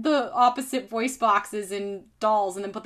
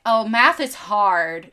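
slow, drawn-out doll line; lightly voiced talking doll, louder and stretched; Barbie doll; 5 dB louder, slower than usual. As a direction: draw it out like a doll's catchphrase. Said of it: "Barbie used to say stuff like".

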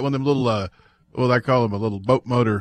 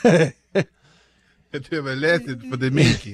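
mock French accent; slower than usual. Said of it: "Rednecks doing French accents".

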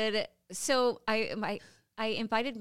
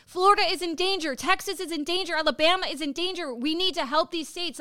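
higher, louder urgent appeal; imagined rallying cry; 6 semitones higher, 6 dB louder than usual. Acted. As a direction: voice the speech a leader should give. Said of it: "I wanna hear her voice saying".

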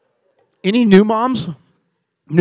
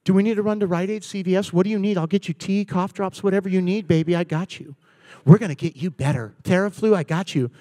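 put-on doting boyfriend to sick girlfriend; 2 semitones lower, 6 dB quieter than usual.

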